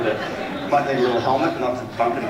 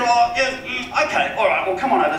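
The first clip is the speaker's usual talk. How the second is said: Philip Harding, wealthy client; 12 semitones higher, 4 dB louder than usual. Retold or imitated. Homeowner lets agent come round, high and hesitant. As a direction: mimic a rich man giving in to a visit. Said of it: "He said".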